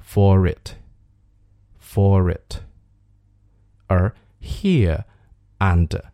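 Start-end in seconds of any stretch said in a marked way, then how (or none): 0.0-2.6 for it joined as "fo-rit"; linked pronunciation. Shown as a demonstration. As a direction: link the R of for into it. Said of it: "所以可以连读成". (for it 连读成 fo-rit)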